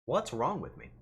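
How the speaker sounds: ordinary talk, nothing marked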